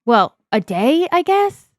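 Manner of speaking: attempted Bronx accent, still rough; a friendly Bronx accent greeting a pal. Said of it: "I'm still working on my Bronx accent".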